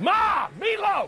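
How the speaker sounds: quiet, rage-filled growling voice. Acting out a guy with some rage yelling at his mom, imitating a raging growl. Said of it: "But a little more growl".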